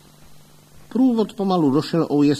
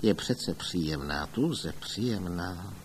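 lower, much softer, slow grumble under the breath; muttering to himself; 4 semitones lower, 8 dB quieter, slower than usual. A narrator's reading. Brewer muttering to himself after the fainting widow, soft low mutter. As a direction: murmur it privately, not for others. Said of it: "A pak zabručel pro sebe".

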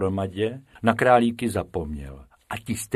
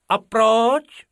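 Bobek asks, much higher; a bright, curious little why; high curious rabbit voice; curious question; 13 semitones higher, 7 dB louder than usual. A narrator's reading. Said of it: "zeptal se zvědavý Bobek".

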